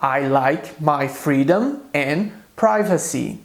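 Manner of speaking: slow, clear English example read for students; slow model sentence. Shown as a demonstration. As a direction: say each word slowly for the class. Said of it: "Eu gosto da minha liberdade". (frase de exemplo lenta e clara)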